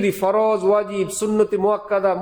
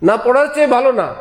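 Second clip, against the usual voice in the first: loud, firm rebuttal; emphatic denial; 4 dB louder than usual. Real, not acted. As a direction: hammer home the না. Preacher rebuts loudly. (জোরালো প্রতিবাদ)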